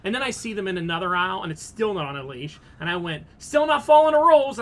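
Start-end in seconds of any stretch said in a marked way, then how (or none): 3.4-4.6 raised, high calling-out voice; retold yell. Shopper scolding dog owners down the store aisle, yelling. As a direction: call it out loud as if down an aisle. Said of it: "I, like, yelled down the aisle".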